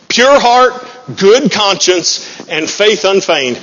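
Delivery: each phrase drawn out slowly; slow scripture emphasis. Acted. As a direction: lay out the words slowly, weighty.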